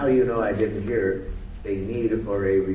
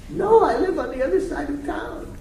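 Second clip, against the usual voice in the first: much higher, louder, laughing mock-distraught plea; distraught pregnant woman; 5 dB louder than usual. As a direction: play the woman at the door in hammed-up distress, way up high. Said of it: "woman answers the question".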